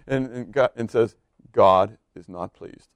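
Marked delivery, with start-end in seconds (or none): 1.5-2.9 lower, very slow and solemn with a laugh; a playful deep divine pronouncement; mock voice of God. Preacher voices God's verdict.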